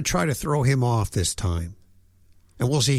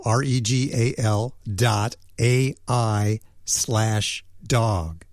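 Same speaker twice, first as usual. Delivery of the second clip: slowly spelled out; slower than usual. Shown as a demonstration. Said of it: "That's Regal".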